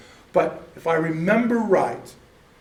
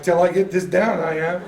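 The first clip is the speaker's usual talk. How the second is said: determined; 4 dB louder than usual. Retold or imitated. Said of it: "And I'm like".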